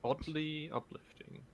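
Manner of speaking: slow soft whisper. Real, not acted. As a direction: whisper it slowly. Whispered comment.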